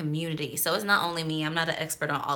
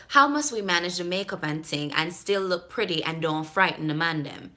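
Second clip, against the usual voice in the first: Jamaican patois question; Jamaican accent. Acted. Vlogger reading the emailer's makeup question, Jamaican accent. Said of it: "trying to deliver it in the way that she wrote it".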